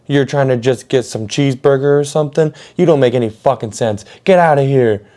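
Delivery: imitated angry manager. Manager orders them out of here, incredulous angry yell. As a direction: imitate a fed-up manager, ending on a shout. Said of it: "he comes in yelling".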